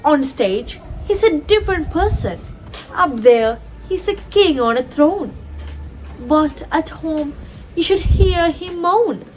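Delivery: measured poem reading with lightly lifted pitch; gently expressive classroom verse reading; poem recitation. Acted. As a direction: recite it line by line, pausing between phrases.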